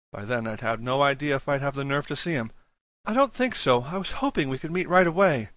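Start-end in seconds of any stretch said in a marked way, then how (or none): 3.1-5.5 put-on anxious young man, higher voice. Julius pleads for help on phone.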